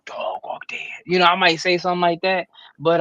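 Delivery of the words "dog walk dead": a soft, voiceless slipped-in curse; a quick whispered aside; hushed curse. Pretend. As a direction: sneak it in under your breath. Sneaking a curse word in.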